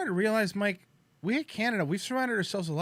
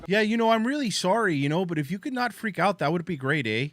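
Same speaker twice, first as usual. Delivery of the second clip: apologetic Canadian accent imitation; lightly put-on polite Canadian accent; mock Canadian accent; 3 semitones higher than usual. Host mimics a polite man calming someone, mock Canadian accent. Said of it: "you never hear that accent thicker".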